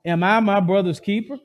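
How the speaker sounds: cocky rising retort to God; sneering Cain; defiant retort. Acted. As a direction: throw the question back with attitude. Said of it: "Do you see the attitude of him?".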